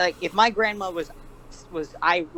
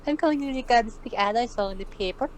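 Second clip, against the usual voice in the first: put-on Scottish old woman; 5 semitones higher than usual. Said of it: "he's doing a Scottish accent".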